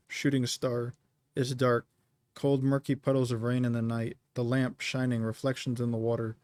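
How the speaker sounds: measured, even poem recitation; steady recital, line endings dropping away; poem reading. Real, not acted. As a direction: read your poem in short lines, pausing between them. Reads third poem aloud.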